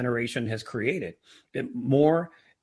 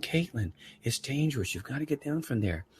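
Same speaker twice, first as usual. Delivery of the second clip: softer retold plea to a child; calm, lowered-volume parental warning; gentler tone; 5 dB quieter than usual. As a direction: reason softly with a small daughter. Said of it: "I like that tone better".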